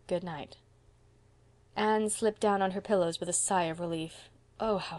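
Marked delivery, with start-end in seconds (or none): 0.1-0.6 tired reply. Acted. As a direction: murmur it wearily to a child. Tired woman's answering good night.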